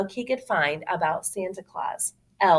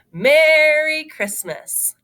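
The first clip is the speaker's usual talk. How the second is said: slow, louder, higher greeting; jolly Santa; 9 semitones higher, 6 dB louder, much slower than usual. Acted. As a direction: greet the boy grandly.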